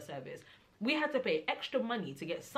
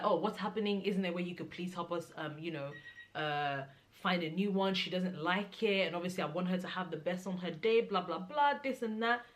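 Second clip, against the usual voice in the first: calm pleading. Retold or imitated. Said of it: "my mum was so calm".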